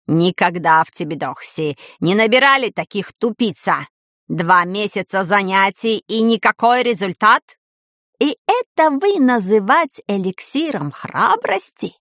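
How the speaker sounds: put-on lightly accented, displeased professor voice; disgruntled foreign professor. Professor berating his dim pupils, displeased, lightly accented. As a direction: scold the class in broken Russian.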